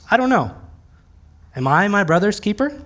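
mock-innocent little brother voice; snot-nosed little brother. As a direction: play the cheeky little brother dodging blame. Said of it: "snot-nosed little brother type of way".

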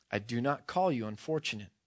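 large voice. Acted. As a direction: answer low and composed as the unseen being. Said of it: "said the large voice".

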